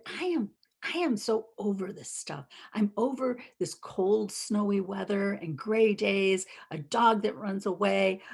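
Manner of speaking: retold fed-up rant, laughing a little; worked-up mock tirade; exasperated outburst. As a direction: re-enact a mild blow-up, piling up the complaints. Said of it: "started getting really angry".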